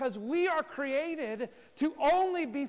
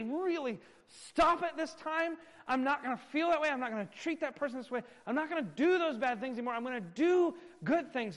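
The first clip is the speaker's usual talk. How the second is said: mimicking empty vows; 4 semitones higher, 4 dB louder than usual. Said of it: "they say, Oh".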